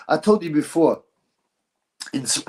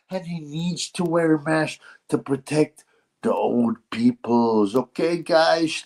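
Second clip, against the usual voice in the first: mocking Dutch-accented voice, pitched up; lightly put-on Dutch accent, mocking a boxer; Dutch accent impression; 4 semitones higher than usual. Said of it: "that's what he thinks".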